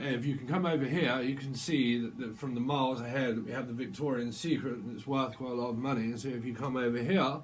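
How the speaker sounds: lightly mocked posh English guide; posh accent. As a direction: show visitors round in posh English.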